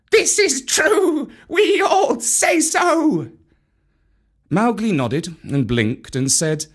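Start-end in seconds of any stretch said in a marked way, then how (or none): 0.1-3.3 high, slow, loud monkey chant; monkeys shouting together. A narrator's reading. Monkey crowd cheering their speakers, high slow chant. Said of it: "they would all shout together".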